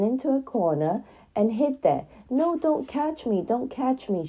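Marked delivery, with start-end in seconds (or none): 2.3-4.3 high, pleading frightened doll; a doll cornered by a cat, crying out high and scared. Acted. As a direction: beg not to be caught, voice jumping up high. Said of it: "she cried".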